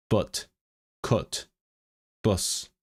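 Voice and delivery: "but, cut, bus" said with a soft schwa, posh Northern English; posh Northern English accent. Shown as a demonstration. Showing posh Northern English vowels, a quiet demo. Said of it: "they use the schwa".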